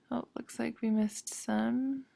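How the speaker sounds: under her breath, to herself; whispered aside. Real, not acted. Teacher noticing a slip on screen, whispered aside. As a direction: mutter it softly, half to yourself.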